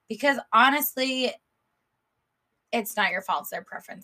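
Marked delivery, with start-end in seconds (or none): 3.4-4.0 soft unvoiced aside; whispering. Real, not acted. Whispered repeat of own phrase.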